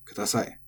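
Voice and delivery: "kudasai." with a pitch fall from the a to the i; accent from a to i. Shown as a demonstration. Teacher modelling the accented "kudasai." for learners, the pitch falling from a to i. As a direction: drop the pitch after the a of "kudasai.". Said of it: "then it has an accent from the a to the i".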